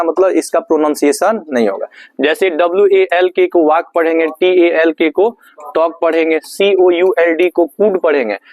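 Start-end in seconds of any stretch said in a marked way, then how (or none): 3.6-3.9 वाक said as "waak", no L; silent L. Shown as a demonstration. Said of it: "एल silent होगा सब में". 5.7-6.0 टॉक said as "tawk", no L; silent L. Shown as a demonstration. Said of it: "एल silent होगा सब में". 7.7-8.0 कूड said as "kood", no L; silent L. Shown as a demonstration. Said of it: "एल silent होगा सब में".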